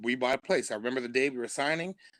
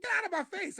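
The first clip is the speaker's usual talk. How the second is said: mock indignant; faster than usual. Teller mocking back at Todd.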